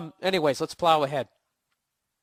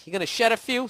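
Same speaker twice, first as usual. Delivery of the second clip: higher, louder taunting sneer; mocking drill-sergeant dad; 9 semitones higher, 5 dB louder, faster than usual. Father taunting his crying kid, higher and louder mocking jeer. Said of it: "that guy in The Great Santini".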